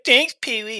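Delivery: quoting Francis. Retold or imitated. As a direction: sneer it like the spoiled kid. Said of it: "He's like".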